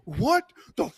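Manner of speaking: high, loud, slow incredulous outburst with laughter; mock the sergeant losing it; outraged squawk. A sergeant shrieking in disbelief at the guard, outraged. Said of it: "He's like".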